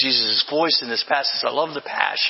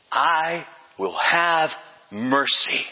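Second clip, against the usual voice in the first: serious declaration; much slower than usual. Retold or imitated. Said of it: "his voice changed, his tone changed, his frequency changed".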